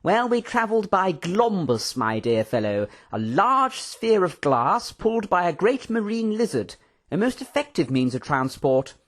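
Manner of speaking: high, swooping, theatrical raconteur; animated excitement. A narrator's reading. Professor recounting his adventures to Mister Tando, excited. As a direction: relish every adjective, pitch bouncing high. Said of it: "with the usual animated gestures and excitement".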